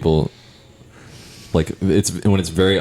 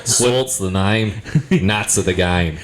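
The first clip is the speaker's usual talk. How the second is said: slow, lightly put-on Australian accent; a hint of Australian drawl, slowed right down; mock Australian accent; 2 semitones higher, slower than usual. Showing off a bang-up Australian accent, a mild mock Aussie drawl. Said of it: "a bang up Australian accent".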